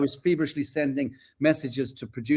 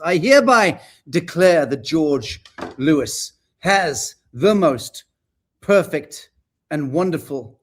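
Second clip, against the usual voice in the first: mock pompous proclamation; 5 dB louder, slower than usual. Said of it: "putting on his bifocals".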